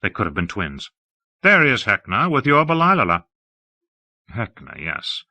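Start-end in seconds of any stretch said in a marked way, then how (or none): 1.4-3.2 higher, affected aesthete voice; a lofty, admiring high voice; Hawke, airy and effusive. Acted. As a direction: gush about the city grandly.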